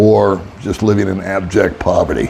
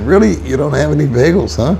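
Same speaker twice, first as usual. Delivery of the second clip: incredulous; 5 semitones higher, faster than usual. Retold or imitated. Retold disbelief at the bagel counter.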